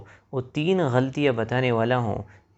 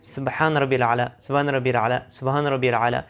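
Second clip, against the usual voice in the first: سبحان ربی الاعلی gabbled fast; rushed recitation. Shown as a demonstration. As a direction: rattle off سبحان ربی الاعلی, the endings clipped. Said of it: "جلدی جلدی میں پڑھ لیتے ہیں". (سبحان ربی الاعلی جلدی جلدی، غلط)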